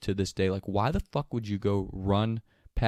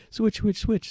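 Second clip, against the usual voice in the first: urgent hiss; 10 semitones higher, 3 dB louder than usual. Retold or imitated. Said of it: "Lenny's like".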